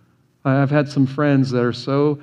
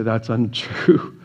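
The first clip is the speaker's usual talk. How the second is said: slow congregational response; 3 semitones lower, much slower than usual. Pretend. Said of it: "everyone in here would just say".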